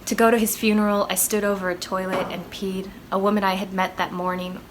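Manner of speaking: measured spoken-word reading with deliberate pauses; solemn, deliberate poetry reading; poem recitation. Acted. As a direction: recite the poem line by line, letting each phrase land. Recites own poem after introduction.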